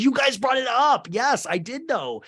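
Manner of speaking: high, loud mock defensiveness; mock defensive Jen. Jen defending herself to the group, high and loud. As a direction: push back high and loud. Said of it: "And Jen goes".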